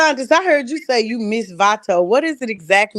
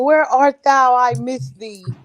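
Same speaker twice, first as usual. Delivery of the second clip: mock old-fashioned longing; 3 semitones higher, slower than usual. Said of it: "and saying".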